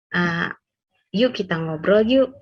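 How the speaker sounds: easy, level-toned invitation; pleasant even intonation. Shown as a demonstration. Partner inviting the other to chat, even-toned. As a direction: invite gently without big rises or falls. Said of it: "nada yang tidak terlalu naik turun".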